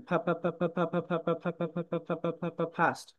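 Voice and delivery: ফা ফা then ফাস্ট, breathy p; aspirated drill. Shown as a demonstration. Teacher leading the class in the drill. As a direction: repeat ফা, finish on ফাস্ট. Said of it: "unmute করে পড়াশোনা করেন".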